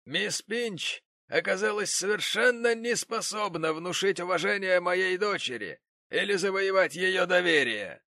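high, loud pompous gentleman; pompous father. Acted. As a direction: lecture like an offended rich man. The gentleman's complaint.

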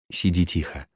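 low murmur into her ear; quiet murmur. A narrator's reading. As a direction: say it softly, close to her ear. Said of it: "сказал он Кате в самое ухо".

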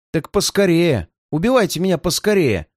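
cry out. Acted. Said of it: "крикнул Боб".

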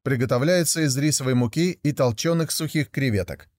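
ordinary delivery, nothing marked

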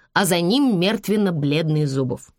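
ordinary delivery, nothing marked

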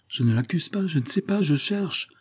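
high-pitched, helpless protest; distraught protest. A narrator's reading. Philippe answers the grandfather's reproach, high distraught protest. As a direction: climb high as you grope for an answer. Distraught lover defends himself, groping.

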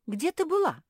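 высоко и громко набрасывается с вопросом; отчитай подругу, почти выкрикивая; налетела с упрёком. Acted. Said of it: "налетела на неё Куки". (Куки громко налетает на вернувшуюся Гортензию)

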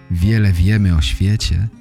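ordinary talk

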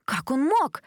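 high sobbing cry. A narrator's reading. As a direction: sob the question out. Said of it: "всхлипнула Джесс". (всхлипывая)

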